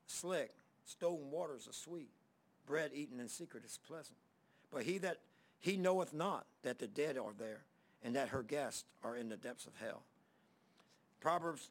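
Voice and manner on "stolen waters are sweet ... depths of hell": low, measured Bible reading voice; scripture reading. Acted. Reads scripture.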